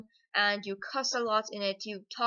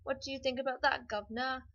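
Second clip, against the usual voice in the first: exaggerated stereotype of a British accent; mock British accent; 3 semitones higher than usual. Shown as a demonstration. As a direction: play up a very British tea-drinker accent. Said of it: "two kinds of British accent".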